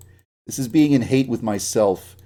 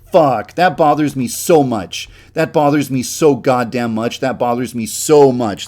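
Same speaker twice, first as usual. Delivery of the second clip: louder, exasperated venting; annoyed rant; 6 dB louder than usual. Real, not acted. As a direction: vent real annoyance at the glitch. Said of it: "That makes me so pissed".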